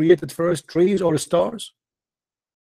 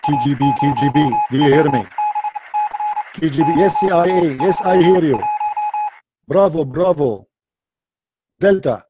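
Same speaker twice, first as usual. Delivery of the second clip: mock radio call. Mock radio call, hearing voices.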